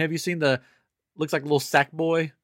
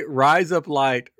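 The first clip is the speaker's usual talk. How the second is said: slow demo; 4 dB louder, much slower than usual. Shown as a demonstration. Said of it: "really fast".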